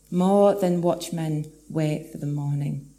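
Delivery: gentle slow echo of the verse. Acted. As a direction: let the line settle back down, thoughtfully. Repeats verse line softly after proclaiming.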